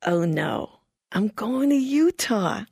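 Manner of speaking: dismayed reading. Retold or imitated. Rereading disappointing mission letter.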